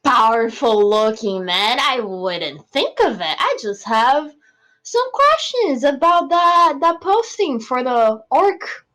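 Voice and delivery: sarcastic fawning praise of a strong man; butter him up with obvious fake admiration; mock flattery. Player flatters the town master.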